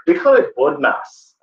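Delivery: slow, mixed-up imitation English accent. Tutor from England naming her acronym, imitated English accent. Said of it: "mixing up my accent".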